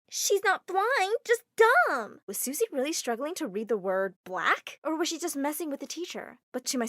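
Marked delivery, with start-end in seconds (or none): 0.1-2.2 loud whisper. Acted. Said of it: "whispered loudly".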